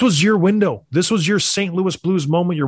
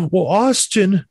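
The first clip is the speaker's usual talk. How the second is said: mock Toronto fan; 5 semitones higher, slower than usual. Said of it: "people in Toronto say".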